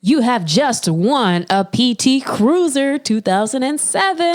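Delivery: slow recorded announcement voice; automated message voice. Pretend. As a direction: read it like a prize robocall. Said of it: "Why do you sound like an automated message?".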